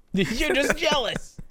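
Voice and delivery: Esperoba impression. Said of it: "That was real good".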